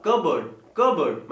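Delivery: कबर्ड as KUH-burd, p silent; correct pronunciation. Shown as a demonstration. Teacher correcting learners, कबर्ड with silent p. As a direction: say कबर्ड without any p. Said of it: "क्या होगा?".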